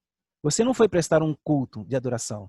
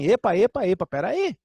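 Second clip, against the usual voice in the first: voicing Paul; 4 semitones higher, slower than usual. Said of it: "por isso Paulo diz assim".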